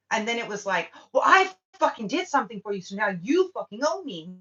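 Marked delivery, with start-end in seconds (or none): 1.1-4.4 louder, fast, higher indignant mock claim; hammed-up entitled huff, demanding payback. Mocking a demanding acquaintance.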